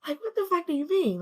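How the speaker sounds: shouted high and loud in disbelief; livid outburst. Retold or imitated. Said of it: "I was livid".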